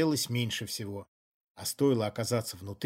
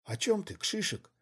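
high, indignant protest; 8 semitones higher, 3 dB quieter than usual. A narrator's reading. Woman indignantly questioning her partner. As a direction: bristle at the accusation. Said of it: "возмутилась Раяна Мнишек".

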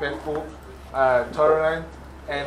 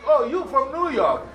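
mock recognition; 8 semitones higher than usual. Mimics remarks on someone's accent.

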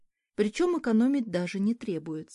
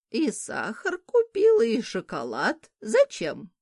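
slow, pitch leaping up on Зачем; disapproving old woman; 3 semitones higher, 4 dB louder, slower than usual. Acted. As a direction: scold the wasteful shopping, incredulous. Old woman scolds purchases.

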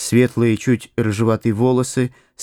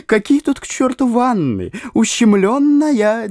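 eerie demon voice, much higher; demonic voice of fear; 10 semitones higher than usual. A narrator's reading. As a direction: let fear sing it like a demon, pitched up. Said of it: "демонским голосом пел страх".

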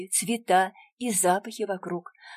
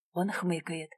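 plain reading voice

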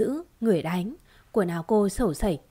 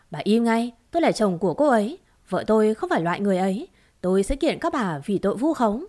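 furious defense; 3 dB louder, faster than usual. Acted. Husband defends wife angrily.

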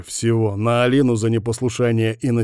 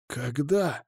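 shocked hoarse ask; 4 semitones higher, 7 dB quieter than usual. Acted. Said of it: "просипел Капа шокированно".

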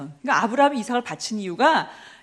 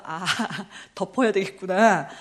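rueful realisation; 4 semitones lower than usual. Retold or imitated. Rueful realisation, acted with laugh.

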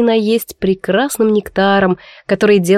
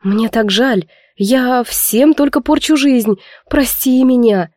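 tearful apology; 2 semitones higher, slower than usual. Acted. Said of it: "Я заплакала вместе с Камилой".

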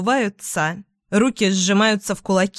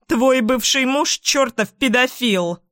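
shout; 4 semitones higher than usual. Acted. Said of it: "кричит мама".

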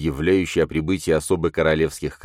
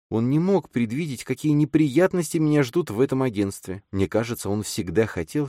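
слегка выше, мягкий голос женщины; чуть озвученная молодая женщина; женский голос героини; 7 semitones higher than usual. A narrator's reading. Эллен озвучена выше голоса рассказчика. (лёгкий женский голос)

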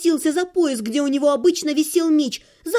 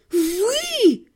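hissed; 6 semitones higher than usual. Acted. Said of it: "прошипела я".

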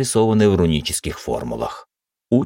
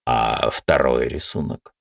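even voice; 4 semitones lower, slower than usual. Acted. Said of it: "всё таким же ровным голосом спросил".

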